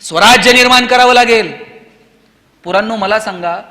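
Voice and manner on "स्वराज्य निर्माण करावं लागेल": loud, resolute mother's command; lightly acted, ringing maternal order; Jijau. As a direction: charge your son with a great mission, voice raised. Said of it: "जिजाऊंनी त्यांच्या पोराला सांगितलं".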